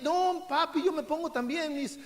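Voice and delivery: put-on child's voice. Child insisting again.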